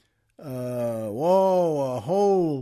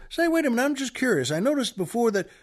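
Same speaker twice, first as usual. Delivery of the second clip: curious Texan; 3 semitones higher than usual. Retold or imitated. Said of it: "the Texan then says".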